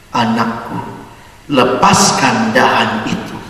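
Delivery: low, slow, calm divine voice; lightly voiced God answering from above. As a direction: speak down slowly as God.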